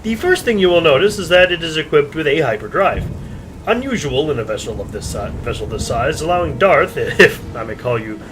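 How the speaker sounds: car salesman pitch. Acted. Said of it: "He's a fucking car salesman".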